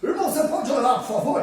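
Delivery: calling out loud and high over a distracted room; a brother is asked loudly to pray at a house meeting, laughing call. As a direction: shout the request across the room with a laugh. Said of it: "aí você fala assim".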